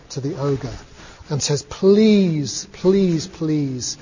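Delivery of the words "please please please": mildly acted imploring king; pleading. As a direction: beg with drawn-out words, falling away. Weeping king begs for son.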